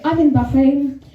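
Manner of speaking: loud "Bahrain" with a rolled R. Retold or imitated. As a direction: trill the R in "Bahrain". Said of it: "when people do the rolling R's".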